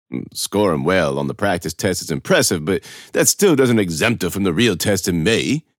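a hint of pompous administrator; concede, then object a little officiously; lightly voiced official, unconvinced. Narrator voices Mister Toll.

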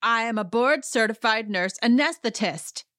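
hammed-up retold indignation; mock self-important. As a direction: proclaim the title as if it settles everything. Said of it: "And she says it twice".

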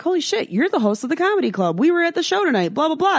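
star-struck fan meeting the host; excited fangirl greeting. Retold or imitated. Spotting the comedy club host at Jimmy John's, gushing.

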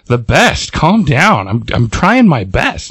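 touch of defensive snapping, no real shout; mildly mock an over-defensive retort; defensive yell. Jubilee snaps at friend's harmless question, mildly defensive. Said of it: "like, yells at us".

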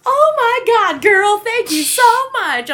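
put-on high, loud, gushing rich-girl voice; bougie girl voice. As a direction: gush like a stuck-up party girl. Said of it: "That's the only bougie girl voice I can do".

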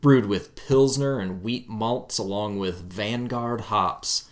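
slow, smooth label read; beautiful voice read. Pretend. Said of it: "read the back of it with your beautiful voice".

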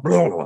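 imitated noise of shaking off a punch; rattled head-shake sound. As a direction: shake off a hit with a blubbering noise. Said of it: "like that".

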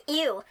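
"ew" as the English word, yoo; one-glide English "ew", starting on a y; English pronunciation. Shown as a demonstration. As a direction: say "ew" like "you". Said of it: "like you would in English".

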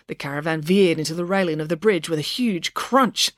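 ordinary delivery

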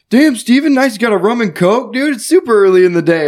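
high teasing jab; mock teasing. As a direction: tease him with fake surprise. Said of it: "I was like".

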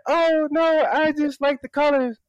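put-on very high, innocent old lady voice; squeaky put-on female voice. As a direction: imitate a lady sweetly excusing herself. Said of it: "like, this old lady comes on".

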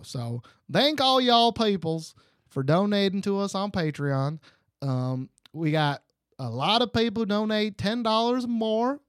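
playful fake Texan thank-you speech; bad Texas accent. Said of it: "do this all in a Texas accent".

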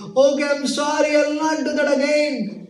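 put-on high, tearful begging of a small boy; mock-crying child pleading. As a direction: beg the friends to take you back, high. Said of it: "where he was crying, he was saying".

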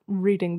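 reading said as the activity; reading with long ee. Shown as a demonstration. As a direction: stretch the ee in reading. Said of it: "Yeah, not, like".

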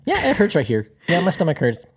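put-on whiny child voice. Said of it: "imitating the child".

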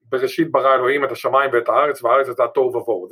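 rapid Hebrew recital of Genesis; quick recitation. Shown as a demonstration. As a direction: rattle off the verse fast.

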